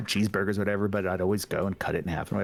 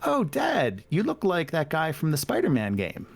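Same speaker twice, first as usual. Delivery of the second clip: put-on high, childlike teasing voice; a kid blurting out the joke, pitched up; 6 semitones higher than usual. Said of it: "they're like".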